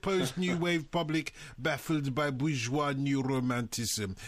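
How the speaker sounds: host hamming up a listener's text in a mock Russian accent. Radio host reads a listener's text in a mock Russian accent. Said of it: "do this text in a Russian accent".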